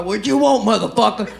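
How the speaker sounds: lightly acted gruff smoker's challenge; cigarettes-and-whiskey voice. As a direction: answer the door with a hint of whiskey rasp. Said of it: "listen to my voice. This, this is cigarettes and whiskey".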